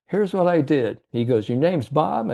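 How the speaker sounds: a hint of the old man leaning in; old salesman's voice. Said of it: "how he talked to".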